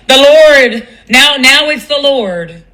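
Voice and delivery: laughing in disbelief, then slow; incredulous laugh. Real, not acted. Laughing at the friend's excuse, then slow and disbelieving. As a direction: scoff at it, then drag it out. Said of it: "laughing disbelief at excuse".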